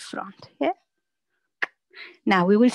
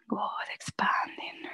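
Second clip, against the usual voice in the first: soft cue; 9 dB quieter, slower than usual. Real, not acted. Coach cueing a held stretch.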